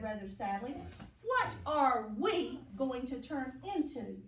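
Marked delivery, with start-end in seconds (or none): 1.2-4.2 pollywog asking. Acted. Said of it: "the pollywog asked".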